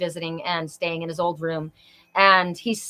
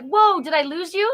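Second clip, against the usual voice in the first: retold alarm; 9 semitones higher, 4 dB louder than usual. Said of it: "I was like".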